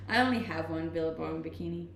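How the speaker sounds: normal talking voice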